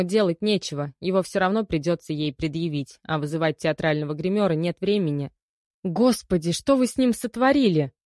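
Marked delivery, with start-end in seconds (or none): 5.8-7.9 sudden high shocked outcry; shocked cry. Acted. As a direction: cry out in horror at the sight. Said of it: "вскрикнула Алла". (вскрик ужаса)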